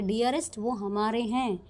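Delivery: slow, fond reassurance; a father gently settling the argument; lovingly. Retold or imitated. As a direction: soothe her like a doting father. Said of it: "उसको बहुत प्यार से कहता है".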